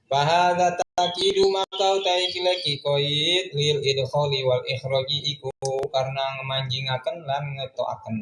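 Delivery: chanted Arabic text with word-by-word Javanese gloss; kitab recitation. Acted. Teacher reading the Arabic kitab aloud to students, chanted recitation. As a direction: intone the classical text like a pesantren teacher.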